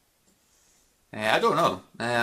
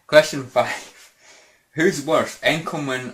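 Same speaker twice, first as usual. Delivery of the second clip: loud announcement; 4 semitones higher, 5 dB louder, slower than usual. Real, not acted. Announcing the next question.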